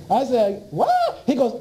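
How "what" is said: very high, stunned question; stunned what. Retold or imitated. The director says they must stop people getting well, stunned. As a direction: shoot the word up in shock. Absurd reason given.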